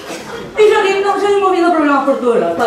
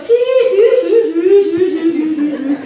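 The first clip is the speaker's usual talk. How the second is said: eager fake yeses. Kids assuring the monitor they understood, mock eager. Kids answering yes to everything.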